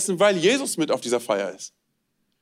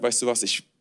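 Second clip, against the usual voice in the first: God speaking tenderly; 6 semitones lower than usual. Acted. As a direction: speak as a loving father to his child. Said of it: "Dass Gott dich anschaut und er sagt".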